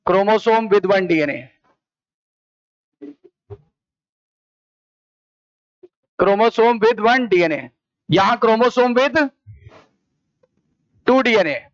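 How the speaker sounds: very slow, drawn-out words; slow dictation. Real, not acted. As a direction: dictate slowly for students to write down. Dictating notes while writing.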